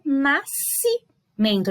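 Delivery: NASCIMENTO devagar, com o SC soando como um único C; SC como um som só. Shown as a demonstration. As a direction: diga "nascimento" pausado, um som só em "sci". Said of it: "É como se fosse o som de uma só". ("nascimento" em sílabas lentas, SC com som de C)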